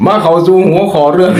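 breaks into a high breathy laugh. Real, not acted. Host laughing to his listeners, amused. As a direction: laughs while moving on to the topic.

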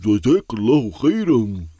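talking through a mouthful; words round a bite of cake; mouth full. Acted. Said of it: "You shouldn't talk with your mouth full".

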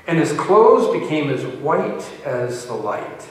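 measured, emphatic Bible reading; scripture reading. Acted. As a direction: read the passage out to a congregation. Reads scripture aloud.

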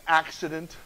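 low, soft deadpan punchline; deadpan answer. Acted. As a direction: drop low and quiet for a mock-sheepish answer. Comic answer to the name question.

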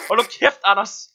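loud angry shout. Real, not acted. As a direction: yell it at him. Repeats it shouting.

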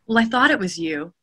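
mild, understated line reading; not angry. Retold or imitated. Narrator reading before seeing "said angrily", mild. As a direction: read the line with no anger at all. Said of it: "Well, that wasn't angry".

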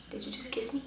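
unvoiced whisper, a secret between two girls; whispered dub.

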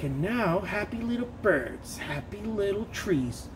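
lightly voiced gentle TV painter; slow soothing painting-show voice; mocking a soft-spoken painting host, slow and hushed; soft slow painter parody. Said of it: "hate talking about art".

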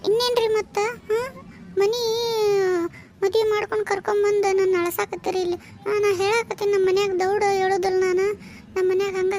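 tearful wife pleading through sobs; wife crying to husband about village life, tearful; tearful complaint. Acted. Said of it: "ಎದಕ್ ಅಳಾಕತ್ತಿ?".

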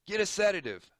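high, loud urgent order; doctor ordering the nurse. Acted. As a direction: shout the order across the room. Doctor calls for sedative.

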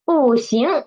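"不行" with falling bù, then rising xíng; unchanged tone sandhi. Shown as a demonstration. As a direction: keep "不" falling before second-tone "行". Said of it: "It didn't change".

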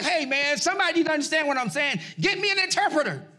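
fast, rising to high exasperated demand; mock-angry demand for an interpreter; retelling how he snapped at a worker; retold frustrated outburst. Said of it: "I'm like".

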